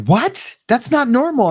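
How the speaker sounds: high-pitched mock incredulous wife; retold disbelief. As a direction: imitate a wife taken aback. Wife's shocked reaction retold.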